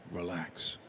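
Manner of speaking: calm relax. Retold or imitated. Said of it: "So calmly".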